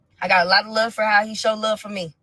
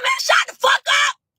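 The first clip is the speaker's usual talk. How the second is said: slow, much higher mock shout; retold snapping back; 5 dB louder, slower than usual. Telling the caller off on the phone, mock shout. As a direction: bark it back at him slowly. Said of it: "I said".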